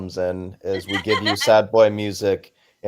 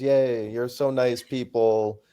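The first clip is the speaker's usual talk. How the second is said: mock-sweet and pitched higher; sarcastic gushing; 5 semitones higher, 6 dB louder than usual. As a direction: gush with fake gratitude. Mocking Spotify with fake praise.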